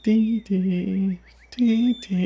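high squeaky chickadee call; bird call imitation. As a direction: chirp like a small bird. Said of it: "And it's like".

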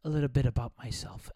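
a hint of a sweet stage host; mock gentle wife stalling the crowd; light mock wife voice; lightly voiced wife. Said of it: "She's like".

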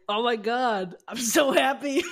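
laughing with relief. Retold or imitated. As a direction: burst out laughing with joy. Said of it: "I just start laughing".

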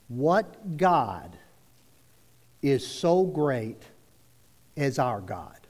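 slow, spaced-out phrases falling low; very slow dictation. Shown as a demonstration. Preacher dictating words for people to write, very slow. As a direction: dictate slowly, pausing between phrases. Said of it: "I'm gonna say 'em very slow".

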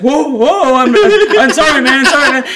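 high, laughing "sorry, man"; laughing apology. Retold or imitated. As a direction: apologize while cracking up. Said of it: "He's like".

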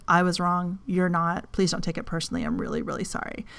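soft, fading sincere apology, the last words whispered fast. Retold or imitated. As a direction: apologize gently to your kids, dropping to a whisper. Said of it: "I apologized to the kids".

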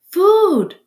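put-on tiny high-pitched baby bird cry; peeping gosling. A narrator's reading. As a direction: peep loudly like a hungry hatchling. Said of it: "peeped the gosling".

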